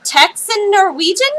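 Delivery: imitated astonishment, high and loud, rising at the end; surprised. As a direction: mimic his amazed question. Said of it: "He was really surprised".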